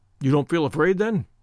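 plain

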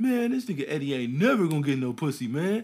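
high, loud, jeering, put-on mocking taunt. Speaker recalling being teased as a virgin at sixteen, retelling someone's teasing. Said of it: "you would get teased like".

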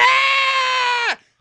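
put-on very high screaming, wailing baby voice.

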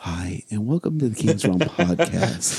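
soft, intimate ASMR-style voice. Opening the podcast episode in an asmr voice. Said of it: "Fucking ASMR".

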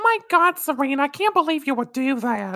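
put-on very high, Brooklyn-accented dub voice. Quoting a favorite dub character line: Molly's Brooklyn accent. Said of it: "Brooklyn accent Molly".

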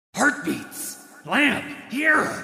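growled in a deep voice. Reading a story aloud, voicing an unseen calling voice: deep growling voice. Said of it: "a deep voice growled".

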